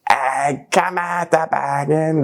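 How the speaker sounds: slow Bergen accent, "Jeg kommer til Bergen" with a rolled, throaty lilt; Bergen dialect. Shown as a demonstration. Rapper showing how Bergen locals say it, Bergen accent. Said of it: "But in Bergen, you say".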